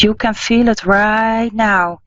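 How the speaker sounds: soothing psychic healer easing a caller; guided healing meditation. Acted.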